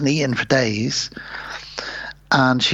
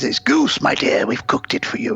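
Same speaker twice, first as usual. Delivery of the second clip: king voice. Retold or imitated.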